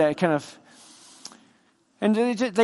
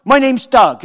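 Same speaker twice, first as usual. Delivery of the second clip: loud, slow Bristol hello with an edge; a slightly aggressive neighbour introducing himself in Bristol tones; pushy Bristol neighbour popping his head over the fence; gruff Bristol greeting; 6 semitones higher, 10 dB louder than usual. Retold or imitated. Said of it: "it was slightly aggressive".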